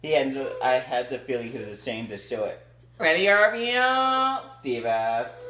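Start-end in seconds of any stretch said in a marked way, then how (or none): 3.0-4.4 high, slow, loud call; character question. Acted. Steve slowly calling to Arvio.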